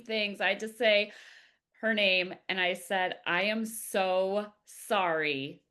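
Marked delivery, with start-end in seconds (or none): 3.3-5.6 heartfelt apology. Retold or imitated. Telling how she begged her graphic designer's forgiveness, re-enacted heartfelt apology. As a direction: retell pleading for forgiveness, stretching the words.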